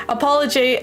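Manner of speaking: "apology" ending in -jay; slip in pronunciation. Real, not acted. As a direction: say "apology" with its last syllable as "jay". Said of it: "why am I saying apology".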